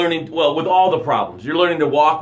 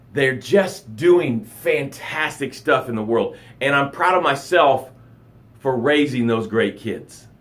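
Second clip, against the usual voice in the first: proud sincere; 2 semitones lower, slower than usual. Shown as a demonstration. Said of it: "That's how a proud of should sound".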